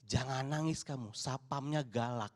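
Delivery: lightly voiced mother shushing her child; imitating a mother. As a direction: hush the kid like a stern mum. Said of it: "ibu-ibunya bilang".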